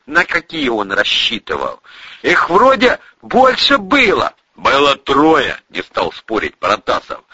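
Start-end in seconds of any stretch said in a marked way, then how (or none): 2.2-4.3 loud, high, slow holler; drawn-out sentry's call. Acted. Sentry calls down doubtfully. 4.6-5.6 loud, slow, raised-pitch call; drawn-out shouted answer; shouted reply. Acted. Shouting back to the barricade.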